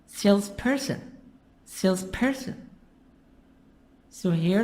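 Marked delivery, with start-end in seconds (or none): 0.0-2.7 "Salesperson" with the weight on SALES; stress on first syllable. Shown as a demonstration. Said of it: "The stress is in the beginning".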